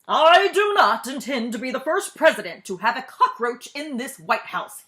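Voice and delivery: loud furious roar; President bellowing. A narrator's reading. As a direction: bellow at the cabinet. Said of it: "he bellowed".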